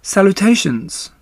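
high and slow, a tiny voice from above; small spider voice. Acted. Baby spider greeting the sad pig in a small voice. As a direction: greet him like a very small creature. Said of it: "he heard a small voice".

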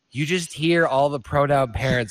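high, loud exasperated outburst; worked-up comic storytelling, rising to a shout; retold flipping out. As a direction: build into a mock-outraged yell. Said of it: "pronoun parents fucking flipping out".

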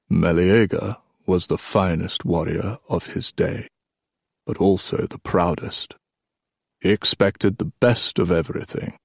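a hint of an old king, measured telling; lightly voiced old storyteller king; old king storytelling. Old king telling the boys a legend, lightly voiced.

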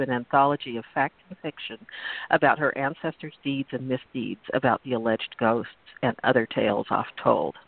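purple prose reading. Acted. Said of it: "I'm going to read it as purple as possible".

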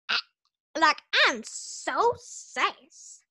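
slow, loud sassy brag; sassy drawl. Acted. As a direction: stretch it out with sass. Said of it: "and she's like".

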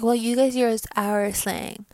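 slow, lightly put-on Valley Girl; a hint of Valley Girl mockery. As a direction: mimic an annoying girl with a drawn-out Valley Girl lilt. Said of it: "why am I doing Valley Girl".

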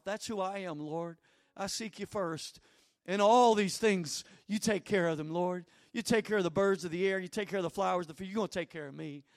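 sincere prayer spoken to the Lord. Shown as a demonstration. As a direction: pray it aloud as an example. Models a confessing prayer.

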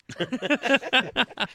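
high burst of laughter; short real laugh; amused laugh. Real, not acted. Laughs at own remark.

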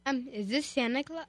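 put-on half-hearted little-boy voice; boy's voice. Boy caller asks the colonel, lightly put-on boy voice. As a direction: attempt a boy's voice, quietly and hesitantly. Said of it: "do it in a boy's voice again".

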